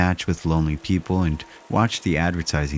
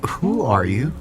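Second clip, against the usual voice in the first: frightened; 5 semitones higher than usual. Acted. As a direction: stammer it out terrified. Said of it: "I could hear the fear in my voice".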